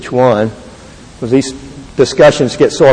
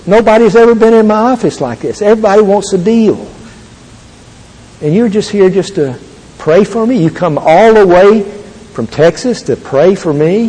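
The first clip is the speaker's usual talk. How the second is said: higher, a touch of tears in the voice; tearful president; 6 semitones higher than usual. Retold or imitated. President moved to tears by the prayer offer, higher and tearful. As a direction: retell a moved president, voice lifted high. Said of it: "And he starts to cry".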